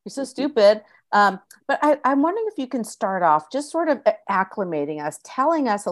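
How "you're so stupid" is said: mock know-it-all listener. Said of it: "East Coast listeners will be like".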